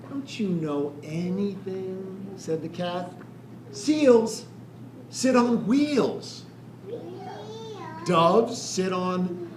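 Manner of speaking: put-on slow, sing-song rhyme reading to children; slow rhyming read-aloud. A narrator's reading. Reading a rhyming picture book to children, slow and sing-song. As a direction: lay each rhyme out slowly for the kids.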